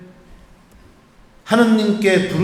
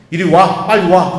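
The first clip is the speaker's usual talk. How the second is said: urgent call; 5 dB louder than usual. Retold or imitated. Priest urgently calls the seminarian over.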